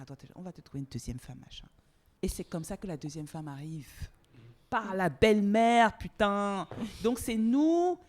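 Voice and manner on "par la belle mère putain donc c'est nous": indignant outburst. Real, not acted. Indignant outburst about mother-in-law.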